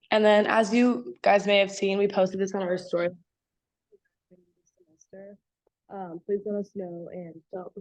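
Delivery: speaking with a hand over the mouth; muffled. Real, not acted. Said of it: "you're kinda muffled".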